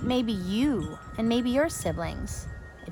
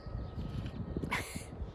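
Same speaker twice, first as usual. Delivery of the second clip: teary breathy laugh; 10 dB quieter than usual. Real, not acted. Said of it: "at least you can't see me when I'm crying".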